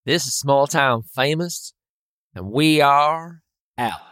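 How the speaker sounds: measured radio sign-off, leaning on "we are"; sign-off take. Shown as a demonstration. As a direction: deliver a deliberate show tagline. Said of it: "Okay, I'll try".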